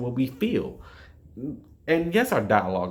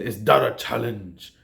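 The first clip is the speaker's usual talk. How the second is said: forceful, weighty Mufasa line, pressing hard on "that"; imitating old Mufasa's emphasis; 3 dB louder than usual. Mufasa answering Scar's threat, forceful and commanding. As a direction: lean on the challenge like a king confronting his rival. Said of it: "he says it with this emphasis on it".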